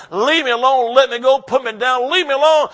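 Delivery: a child's yell, only lightly acted; half-hearted retold screaming of a boy; mock yell of a struggling little boy; mild mock scream. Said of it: "this young boy screamed as loud as he could".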